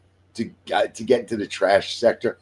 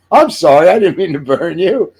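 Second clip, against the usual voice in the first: put-on girl on screen; 7 semitones higher, 6 dB louder than usual. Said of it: "The girl on the screen goes".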